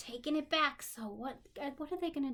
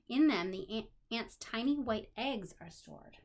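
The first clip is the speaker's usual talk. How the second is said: put-on reading to children; 4 dB louder than usual. A narrator's reading. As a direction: clear storybook reading. Reading a children's book aloud.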